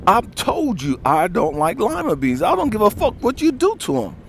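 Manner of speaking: loud, high, heated telling-off; angry boyfriend shouting down his girlfriend; angry retort. Retold or imitated. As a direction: let it rip, fed up. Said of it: "I said".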